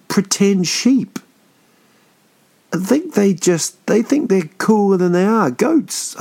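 high, incredulous ranting about goats; mock outrage. Mocking Thor's goat chariot, a high indignant rant. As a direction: squeal with disbelief at the goats.

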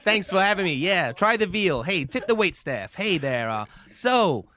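lightly voiced hacky stand-up comic; Dave Kerry. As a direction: work the club crowd like a local comedian. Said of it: "Local comedian Dave Kerry".

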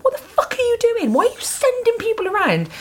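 very high squealed mock protest; hammed-up outrage. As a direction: squeal it in exasperated disbelief, playing upset. Acting her tearful outraged thought.

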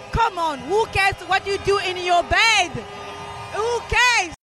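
passionate outcry. Real, not acted. Passionate plea at the march.

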